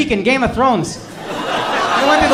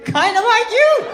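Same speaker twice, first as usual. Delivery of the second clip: imitating the man's quip; 11 semitones higher than usual. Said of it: "he said".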